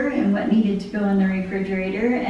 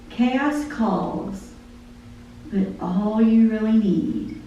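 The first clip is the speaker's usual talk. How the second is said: lyrics read aloud like a poem; spoken song lyrics, devotional; poem recitation. Acted. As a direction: recite the song, measured and heartfelt.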